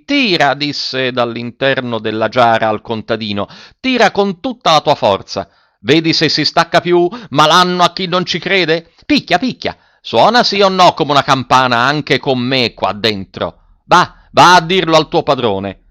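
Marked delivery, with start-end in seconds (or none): 0.0-0.5 called-out order. A narrator's reading. Orders shouted from inside the jar. 3.8-15.8 higher-pitched, impatient commands; worked-up character voice, pitched up; irritable old craftsman giving orders. A narrator's reading. Zi Dima ordering the peasant.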